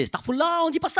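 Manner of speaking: shocked rebuke. Retold or imitated. Muslim friends react to his prayer, shocked and shouting. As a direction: cry out as if he blasphemed.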